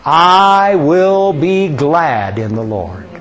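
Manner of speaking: slow, drawn-out congregational recitation; slow psalm recitation with the congregation; recited aloud. Acted. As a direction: lead the room in saying the verse slowly. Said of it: "let's say it out loud".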